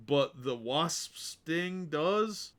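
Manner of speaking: "sting does?" with each s hissed long; drawn-out s like a snake. Real, not acted. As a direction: stretch every s in "Wasp sting does?" into a hiss. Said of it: "I know I'm stretching my S's there".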